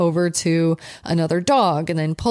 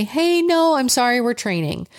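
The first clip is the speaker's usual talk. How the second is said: friendly, higher-pitched brush-off; polite refusal; 6 semitones higher than usual. Shown as a demonstration. Owner to a stranger wanting to pet the dog, polite. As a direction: turn them down nicely, pitched up.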